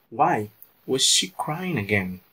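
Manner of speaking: slow, careful repeat of why was she crying again; teacher repeating the sentence slowly for the class; slowed-down model sentence. Shown as a demonstration. Slow, clear teacher's repeat. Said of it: "Porque ela está chorando".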